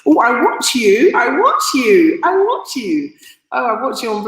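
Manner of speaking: high, eager imitation of fans; excited fans. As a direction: gush it repeatedly like thrilled viewers. Acting out excited viewers greeting her.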